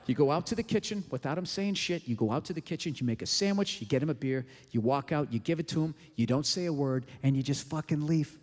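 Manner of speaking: low, deliberate step-by-step advice; low instructional voice. Acted. Comic telling wives the rule in a low, deliberate voice. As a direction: drop the voice way down, steady and instructive.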